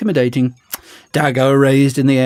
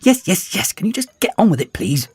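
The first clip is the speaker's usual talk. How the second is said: impatient; 10 semitones higher than usual. Acted. Impatient villain.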